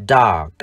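"dark" with long ah and final k; model pronunciation. Shown as a demonstration. Teacher shows how to read dark, "dark" as long ah plus k. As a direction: say "dark" without a heard r, releasing the k. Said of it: "chúng ta đọc là".

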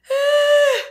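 very high, loud gasp; startled cry. Acted. Fafounet waking with a start, high yelp. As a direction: jolt awake with a yelp.

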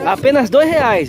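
drawn-out, emphatic price; slow, deliberate sales pitch; slow vendor price call. Shown as a demonstration. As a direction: stretch the price out slowly to tempt buyers. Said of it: "Você fala assim".

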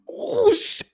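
high squeal through laughter; cracking up at the fit. Real, not acted. Laughing at friend's fit, a squealed oh shit.

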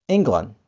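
England said ING-glund, E as I; England with an I sound at the front; English England. Shown as a demonstration. Teacher models England, E sounding as I. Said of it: "E-nya di depan berubah menjadi I".

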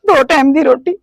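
tearful plea; words catching in a sob; crying. Acted. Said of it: "ਤੁਸੀਂ ਰੋਵੋ ਨਾ ਬਸ". (ਰੋਂਦੀ ਹੋਈ ਬੇਨਤੀ)

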